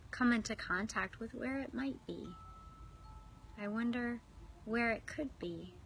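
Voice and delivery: unhurried visualization, phrase by phrase; guided meditation. Real, not acted. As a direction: guide them inward with long, restful pauses. Leads swan pool visualization.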